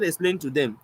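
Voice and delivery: composed, measured reply; calm explaining. Retold or imitated. Poet explaining his line to critics, calmly. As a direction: answer the angry accuser evenly. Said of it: "I was calm".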